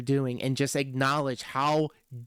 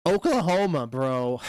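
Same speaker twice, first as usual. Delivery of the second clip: Jim Ross style call. Retold or imitated. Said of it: "My impersonation of P W R".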